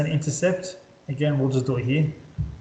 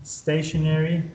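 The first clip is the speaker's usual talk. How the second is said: slow emphasis; slower than usual. Shown as a demonstration. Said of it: "So horizontal point of inflections become".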